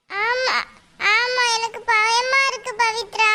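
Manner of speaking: slightly high, slow, drawn-out worry; scared child. Acted. Pupil admits to Pavithra that she is scared, mildly fearful. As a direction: play a mildly frightened little pupil. Frightened pupil confides in a friend.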